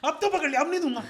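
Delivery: a teacher crowing over a cheater; gloating teacher. Retold or imitated. Bowler imitated as a teacher gloating at a cheating student. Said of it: "bowler का attitude ना वैसा था कि teacher".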